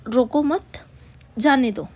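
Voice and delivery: a short break after मत, then जाने दो; pause at comma. Shown as a demonstration. Teacher showing where the comma falls, pause after मत. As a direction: say रोको मत, pause briefly, finish with a falling जाने दो. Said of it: "थोड़ी देर रुक रहे हैं".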